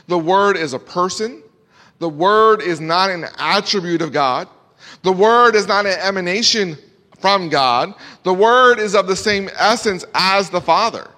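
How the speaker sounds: loud, punched preaching declaration; preacher stressing every key word; emphatic preaching. Real, not acted. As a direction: hammer each statement home to the congregation. Preacher drives home doctrine.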